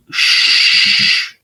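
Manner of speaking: whispered hush; hushing shh. Retold or imitated. Teacher hushing the student, whispered shh. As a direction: silence him with a whispered shh.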